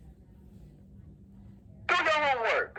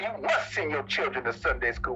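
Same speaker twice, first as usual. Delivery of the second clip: much lower, shouted command; the prophet's command; 11 semitones lower than usual. Retold or imitated. Preacher voicing the prophet ordering the flock, deep shout. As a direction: boom it down like a stern prophet. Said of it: "And the prophet said".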